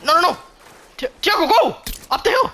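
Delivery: high, loud frantic yell; panicked shouting. Real, not acted. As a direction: scream directions in panic.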